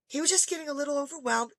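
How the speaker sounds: lightly voiced soothing teacher; gentle teacher. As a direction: play down the trouble softly. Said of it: "I mean, so gentle about it".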